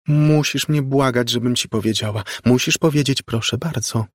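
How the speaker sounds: put-on high, insistent child voice; imperious little girl. A narrator's reading. Ghostly girl tells Margo to beg, high imperious voice. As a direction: make the adult beg, girlishly high.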